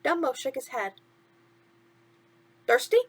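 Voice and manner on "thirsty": chirpy sidekick asking what's wrong; a hint of cartoon mouse; lightly voiced mouse. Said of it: "Timothy asked".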